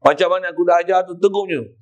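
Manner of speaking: lightly voiced master's correction; teacher's rebuke. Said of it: "Macam tu kot bahasa dia sebut". (guru menegur dengan pantas)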